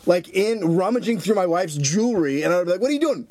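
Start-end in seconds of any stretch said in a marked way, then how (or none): 2.8-3.3 high-pitched imitated challenge; hammed-up outraged question; mock confrontation. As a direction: act out catching an intruder. Imagined confrontation with thief.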